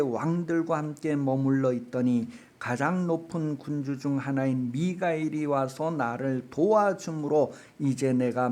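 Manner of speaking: measured Bible-reading voice, slowing at the start and close; deliberate recitation from scripture. Acted. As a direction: read the verse out solemnly to the congregation. Reads scripture aloud.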